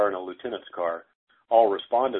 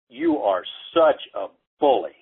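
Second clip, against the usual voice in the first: raised-pitch, louder mock telling-off; retold scolding; 4 semitones higher, 5 dB louder than usual. Teacher grabbing a six-year-old mid-fight, retold scolding. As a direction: imitate a teacher sternly accusing a child.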